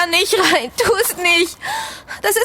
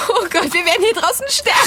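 panicked crying; faster than usual. Acted. Panic lost in the dark.

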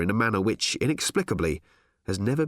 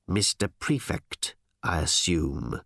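lightly voiced smooth executive, slow and measured; smooth-faced boss; 5 semitones lower, slower than usual. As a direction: take your time greeting an underling.

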